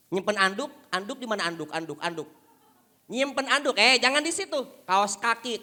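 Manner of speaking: loud scolding wife's nagging; wife scolding husband over a wet towel. Acted. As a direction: scold him about towels and socks. Nagging wife, second year.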